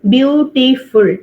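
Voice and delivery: "Beautiful" drawn out slowly, beau-ti-ful; slow syllable demo. Shown as a demonstration. Teacher slowly saying "Beautiful" so students count its parts. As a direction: spell out "Beautiful" by its beats. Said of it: "How many parts you are getting in beautiful?".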